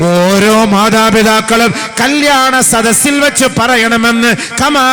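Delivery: high, loud, slow impassioned sermon chant; full-force preaching. Acted. Preacher urging parents at a wedding, impassioned preaching.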